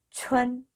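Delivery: "촌" held on a level tone; pronunciation demo. Shown as a demonstration. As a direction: model "촌" as one long, even syllable. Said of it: "이렇게 읽으시면 됩니다". ("촌"을 평평하게 길게 읽는 발음 시범)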